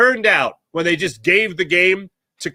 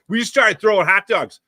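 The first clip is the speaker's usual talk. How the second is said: put-on light Philly South Jersey accent on the quote; hint of a South Jersey guy bragging; 3 semitones higher than usual. Fan quoted on the news in a mild Philly accent. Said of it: "hilarious Philly South Jersey accent".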